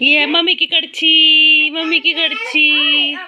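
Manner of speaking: slow, drawn-out teasing chant; teasing singsong. Pretend. Mother teasing her toddler about papa, slow singsong. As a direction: tease the little one slowly, sing-song.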